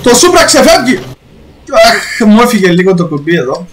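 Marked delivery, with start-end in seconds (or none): 0.0-1.0 lively play-by-play of his own drift; hammed-up motorsport commentary; mock race commentator.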